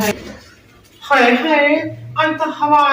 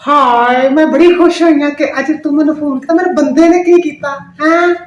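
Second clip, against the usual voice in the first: dramatic loud aunty; 2 semitones higher, 5 dB louder than usual. Acted. Aunty gushing loudly on phone.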